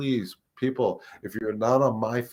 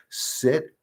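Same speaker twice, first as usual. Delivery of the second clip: firm, higher-pitched dog command; command that means it; 5 semitones higher than usual. Shown as a demonstration. Trainer shows telling a dog to sit, firm command. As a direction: say it once and mean it. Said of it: "mean it".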